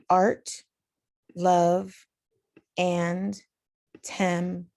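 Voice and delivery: "Art", "love", "and", "tem" one by one with pauses; stressed syllables alone. Shown as a demonstration. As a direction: pick out each beat as a detached syllable. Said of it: "the emphasized one".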